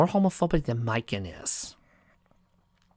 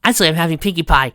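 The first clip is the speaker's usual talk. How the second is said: fast take; 2 semitones higher, 4 dB louder, faster than usual. Shown as a demonstration. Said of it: "No, no, no".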